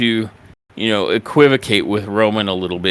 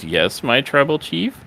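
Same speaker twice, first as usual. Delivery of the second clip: meek, higher voice with a questioning rise; nervous imitation; 4 semitones higher than usual. Wise man answering his tribal chief, nervously. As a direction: lightly mimic a nervous underling answering the boss. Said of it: "Paul nervously says".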